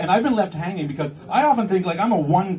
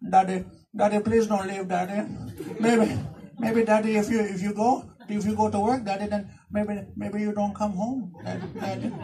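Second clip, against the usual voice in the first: put-on pleading kid voice; 3 semitones higher, 4 dB quieter than usual. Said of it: "you hear all kinds of weird stuff".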